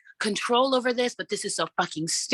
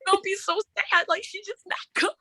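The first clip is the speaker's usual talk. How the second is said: high, sing-song fake comfort; mock consoling; 12 semitones higher than usual. Mocking a sad fan with high fake pity. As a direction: coo it like soothing a child. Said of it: "mock consoling in high voice".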